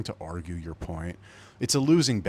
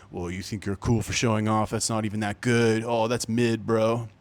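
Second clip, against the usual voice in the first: Gen Z impression; 3 dB louder than usual. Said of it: "it's my Gen Z impression".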